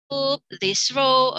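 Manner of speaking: single out the row; teacher addressing rows. Shown as a demonstration. Teacher naming a row to students, slow and clear. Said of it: "classroom instructions demo".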